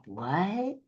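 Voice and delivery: soft, breathy-free hushed "What?" as if leaning in; a listener straining to hear, murmuring "What?"; quiet puzzled what. Shown as a demonstration.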